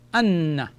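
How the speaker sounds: "Anna" as a model Arabic word, n doubled. Shown as a demonstration. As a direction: join "an" and "na" into "Anna", holding the n. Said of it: "gives me the sound of".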